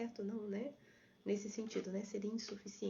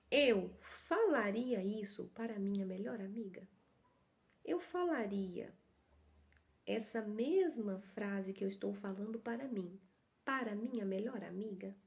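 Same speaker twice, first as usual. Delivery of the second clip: slow, spaced-out question to oneself; deliberate self-questioning; slower than usual. Shown as a demonstration. Coach models asking herself about her best friend, slow and deliberate. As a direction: ask it slowly, pausing to weigh each phrase. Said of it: "Eu vou falar assim, vou fazer essa pergunta pra mim".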